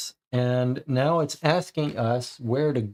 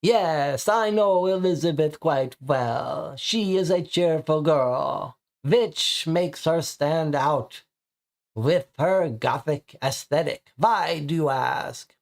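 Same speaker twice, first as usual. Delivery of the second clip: vampire voice; 3 semitones higher, slower than usual. Acted. Vampire larper answers.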